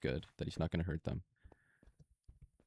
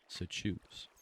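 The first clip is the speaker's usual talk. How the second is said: whispered plea; 5 dB quieter than usual. Retold or imitated. Hogarth's quiet plea to giant.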